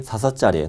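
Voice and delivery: short-tongued "짤" with tch for the s of 살; childish lisp on "짤"; lisping baby talk. Shown as a demonstration. Teacher previewing the next mnemonic, lisped "짤". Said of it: "혀 짧은 소리 좀 내야 돼요".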